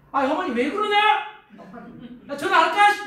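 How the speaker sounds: high, loud indignant husband; hammed-up protest, rising to a shout; mock outrage for wife. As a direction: take her side with exaggerated outrage. Husband acts outraged on wife's behalf.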